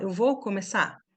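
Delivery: "começar" as "começá" inside the phrase; everyday silent R. Shown as a demonstration. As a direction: say "começar" casually with no final R. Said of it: "Olha como é que a gente fala".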